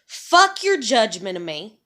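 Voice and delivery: slow, tearful furious line; hurt mother cursing her judges through tears; crying anger. Real, not acted. Angry rant, crying.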